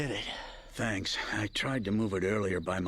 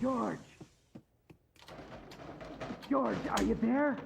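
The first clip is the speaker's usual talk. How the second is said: high urgent call; 10 semitones higher, 3 dB quieter than usual. Acted. Searching the dark for George, calling out high and urgent. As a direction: call across the dark for him.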